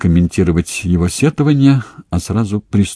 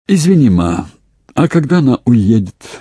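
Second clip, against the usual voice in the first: innocent; 6 semitones higher, 4 dB louder than usual. A narrator's reading. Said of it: "невинно поинтересовался Наполеонов".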